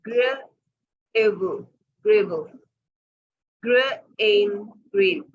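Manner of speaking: ग्र एब split, then ग्रैब blended; phonics blending demo. Shown as a demonstration. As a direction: sound out slowly, then join. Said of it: "इसको हम कैसे पढ़ेंगे? मैं, आप देखिएगा". (बच्चों को ग्र एब, ग्रैब जोड़कर पढ़ाना)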